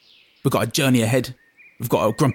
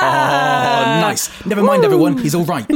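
excited; 13 semitones higher, 5 dB louder, slower than usual. Real, not acted. Mock relief over the HP.

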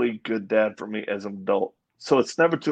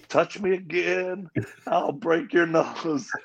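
higher, slow menacing warning; retold threat; 5 semitones higher, slower than usual. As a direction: spell it out slowly like a young Marine ready to swing. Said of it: "I literally jumped up and grabbed him, like".

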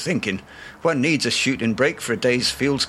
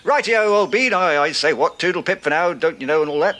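put-on upper-class chumminess; mock toff. Bluffer apes toffs for the supposed lord.

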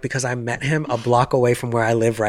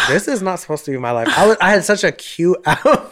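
squealing laugh, high and louder, slowing down; 10 semitones higher, 7 dB louder than usual. Real, not acted. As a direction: crack up through the words at the memory. Laughing at her own story.

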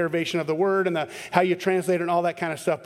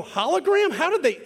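mock amazement. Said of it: "you'd go".

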